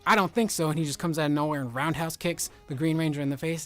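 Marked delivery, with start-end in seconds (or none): 0.1-0.7 high, loud mock tough-guy line; hammed-up cool comeback; Chuck Norris retort. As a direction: deliver it like an unbeatable hero. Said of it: "Chuck Norris is like".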